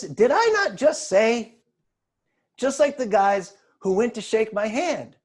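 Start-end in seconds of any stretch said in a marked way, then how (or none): 0.0-1.5 slow, emphatic mock reproach. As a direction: remind them pointedly, louder on each word. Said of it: "Probably didn't say it like that".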